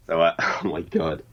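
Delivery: hammed-up American accent, laughing through it; a British guy doing a cheesy American accent; mock American accent. British guest asked to do his American accent, mock American accent. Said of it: "do the American one".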